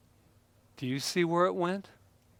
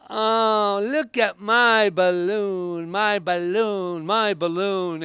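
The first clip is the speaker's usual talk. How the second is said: put-on slow, high, delighted child's voice; childlike wonder over a balloon; excited little kid; 5 semitones higher, 4 dB louder, much slower than usual.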